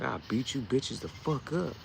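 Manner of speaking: slow, lightly voiced anime hero threat; a hint of a Goku battle cry, held back. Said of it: "In my best Goku voice".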